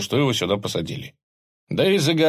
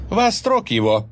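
barked order, raised voice; commanding shout; 10 semitones higher, 4 dB louder than usual. Acted. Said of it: "приказал он".

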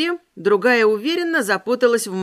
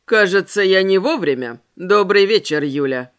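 man's voice; 4 semitones lower, 4 dB louder than usual. Acted. Vampire man's voice in dialogue.

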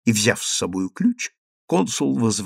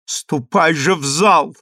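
shouting through tears; 7 semitones higher, 5 dB louder than usual. Acted. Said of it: "кричала Адель сквозь слёзы".

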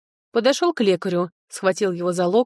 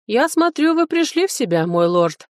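high-pitched policeman, measured remark; policeman's voice; 7 semitones higher, 3 dB louder than usual. A narrator's reading. Policeman to the recovered lord, high-pitched character voice. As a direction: address him in a high character voice.

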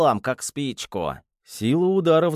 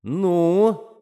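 impatient; 5 semitones higher, 3 dB louder than usual. Acted. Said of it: "не выдержал я".

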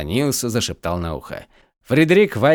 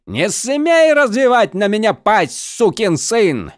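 loud, higher, slow enraged bellow; furious roar; 10 semitones higher, 4 dB louder, slower than usual. Acted. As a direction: roar at the insolent prisoner. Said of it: "взревел Фредерик".

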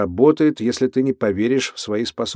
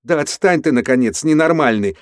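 higher, louder frightened cry; shouting; 4 semitones higher, 3 dB louder than usual. Acted. Max cornered by his cellmate, shouting. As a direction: yell him off, back to the wall. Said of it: "закричал Макс".

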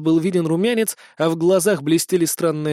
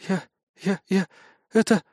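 trembling squeak; 2 semitones higher than usual. A narrator's reading. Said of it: "дрожащим голоском пискнула".

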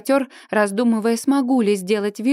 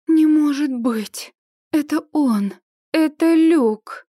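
higher, slow breathless wonder; joyful disbelief; 5 semitones higher, slower than usual. Acted. Heroine seeing Luke come to her, joyful disbelief. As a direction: let joy break through.

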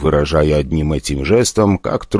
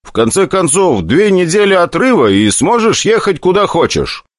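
persuasive; 12 semitones higher than usual. Acted. Hero keeps persuading.

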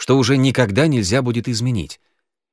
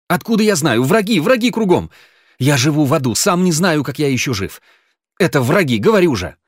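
much higher, louder panicked protest; frantic gabble; 6 semitones higher, 5 dB louder than usual. A narrator's reading. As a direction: rattle it off terrified. Genka hysterically blaming enemies.

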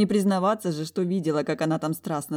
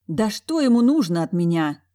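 grumbling; 3 semitones higher, 7 dB louder than usual. A narrator's reading. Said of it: "теперь уже ворчала я".

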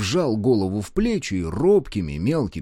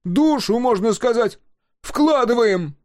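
very high, loud lament; loud, high-pitched outcry; anguished shout; 6 dB louder, slower than usual. A narrator's reading. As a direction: wail it out, wounded. Continues the anguished yell.

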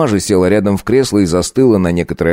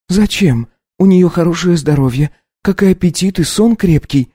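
put-on high young wife voice, taken aback; lifted, incredulous young woman; Katya, startled wife; 11 semitones higher than usual. Wife asks her husband to repeat himself.

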